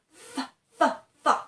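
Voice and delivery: fa with teeth on lip, blown out; teacher shows the fa sound; f sound demo. Shown as a demonstration. Pronunciation teacher demonstrating fa. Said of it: "you can just go like this".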